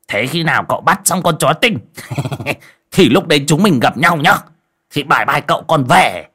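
wriggle out of it cheerfully; cheerful excuse. Acted. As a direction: friend sneaking off with a chirpy bye bye. Friend cheerfully fleeing.

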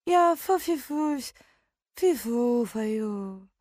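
twitchy squeaking rat voice. A narrator's reading. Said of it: "запищала она по-крысиному".

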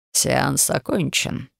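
slow, curt dismissal; dry. Acted. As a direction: drop it flatly. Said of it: "сухо обронил глава тайной канцелярии". (сухо, коротко)

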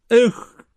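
high, exasperated "ekh"; frustrated grunt. A narrator's reading. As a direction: grunt with helpless vexation. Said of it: "Он при этом крякнул". (досадливое кряканье)

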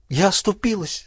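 sobbing. Acted. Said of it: "скорее прорыдала".

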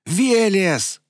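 high, loud howl of a name; joyful howl. Acted. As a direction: howl his name in triumph. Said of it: "взвыл Роман".

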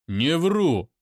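loud shout back; loud pained shout; angry shout. Acted. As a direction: roar it in pain. Daimon shouts.

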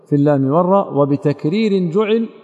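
والراء ending on a plain "raa", no glottal stop; hamza dropped. Shown as a demonstration. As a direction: recite والراء without its final hamza. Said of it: "والراء طبعًا تقرأ بدون همزة".

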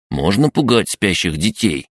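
high, eager little creature; crab gnome voice. Acted. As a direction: pester like a mischievous imp.

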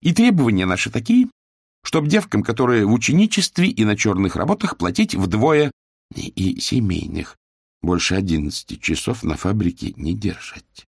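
put-on girl stating the workers' demands; young factory girl demanding. Young female worker voiced.

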